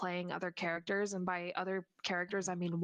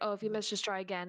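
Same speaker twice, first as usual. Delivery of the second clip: sour, negative, sarcastic tone. Repeating what they say in a game when another player misses: put-on sarcastic, negative tone. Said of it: "negative, sarcastic tone".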